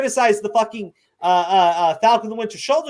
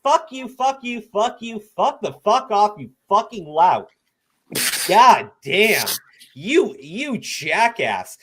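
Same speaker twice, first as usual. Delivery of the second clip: swearing tirade; 3 semitones higher, slower than usual. Acted.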